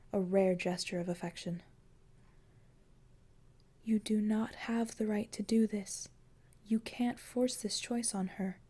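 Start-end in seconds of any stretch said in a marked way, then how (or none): 3.8-8.6 1 Death's voice. Acted. Death forbids him, softly.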